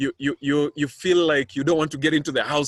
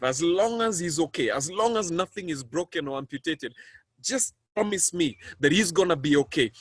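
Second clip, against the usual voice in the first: pleading prayer; 3 semitones higher than usual. Retold or imitated. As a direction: bargain with God for your son's life. Bargaining prayer to God.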